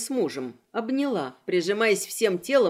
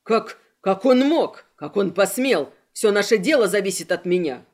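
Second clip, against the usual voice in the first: furious yell; 3 semitones lower, 4 dB louder than usual. Acted. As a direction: roar it out in fury. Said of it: "И вдруг яростно заорал".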